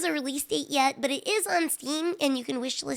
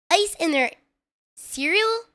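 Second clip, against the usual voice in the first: incredulous; 4 semitones higher, 3 dB louder, slower than usual. Real, not acted. Disbelief at friend's cereal habit.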